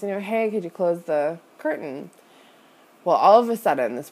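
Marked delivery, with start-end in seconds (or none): 0.2-2.1 sweetly polite. Retold or imitated. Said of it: "I was trying to be nice".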